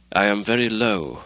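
a touch of weary gloom; dreary. Acted. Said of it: "replied the doctor drearily".

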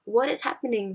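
overwhelmed disbelief, retold. Student torn between excitement and fear at her acceptance, retold bewilderment. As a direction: draw out the question in mock disbelief. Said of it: "I was so excited and I was so scared".

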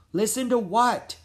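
high, loud question; calling back. A narrator's reading. Jack answering Annie in a blizzard, calling back. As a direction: shout the question over wind. Shouting over the storm.

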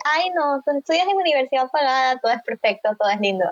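mock naive believer. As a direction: lightly parody a starry-eyed believer in a myth. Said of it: "ese mito que existe de".

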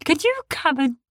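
high, loud, soothing little creature; calm the worried ones; littlest beast. A narrator's reading. The littlest beast reassures the others, high. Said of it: "said the little one".

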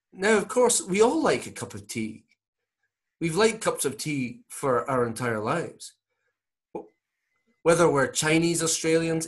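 put-on lilting Scottish accent, pitched high at first; Norman Swan. Comedian as radio doctor advising parents on tea, Scottish accent. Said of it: "This is Norman Swan advising Australian parents".

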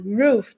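ROOF with a curled English R; tongue-curl R. Shown as a demonstration. Teacher models roof for learners, curled R. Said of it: "voltinha na língua".

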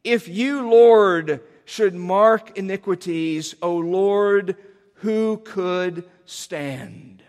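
drawn-out humble appeal to the Lord; humble cry to God. Acted. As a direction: cry out slowly and humbly in prayer. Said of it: "he cries with great humility".

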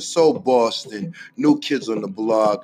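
rhythmic, punchy roll call of Boston places; spoken-word hype intro. Acted. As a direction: chant each neighborhood like a hometown anthem. Spoken-word hometown hype intro over music.

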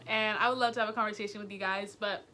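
winded after excited talk; breathless, gasping between words; out of breath. Real, not acted. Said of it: "I'm actually out of breath".

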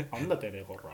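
japanese delinquent tough talk. Retold or imitated. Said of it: "みたいな言われて".

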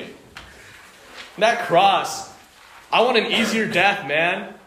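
preacher voicing an imagined complaining Jesus, lightly whiny; whiny pretend Jesus. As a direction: sulk like a spoiled son asking favours. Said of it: "imagine if he said these things".

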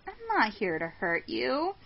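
mock-friendly neighbor voice, rising high; hammed-up intruder. Intruder introduces himself as the new neighbor, hammed-up and high.

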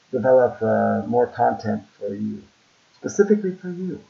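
muffled through a rubber mask; talking from inside a hot mask. Real, not acted. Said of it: "it's getting hot in this mask".

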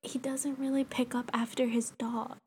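hushed, confidential whisper. Real, not acted. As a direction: whisper it like gossip about a neighbour. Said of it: "why am I whispering".

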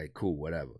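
breathy whispered shrug, totally relaxed; unbothered whisper. Retold or imitated. Relaxed smoker in his yard, whispering to himself. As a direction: whisper it like nothing matters.

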